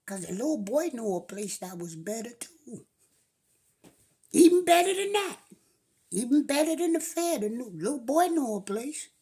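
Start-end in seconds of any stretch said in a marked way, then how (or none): 4.3-7.4 hyped narration. A narrator's reading. Narrator hypes the boy's place.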